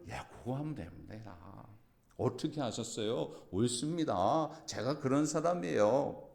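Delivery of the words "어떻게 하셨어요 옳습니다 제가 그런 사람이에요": slow, gentle, humble; humble model reply. Shown as a demonstration. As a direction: say it meekly, swallowing pride. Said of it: "저를 쫓아가세요". (자존심을 내려놓은 겸손한 말투)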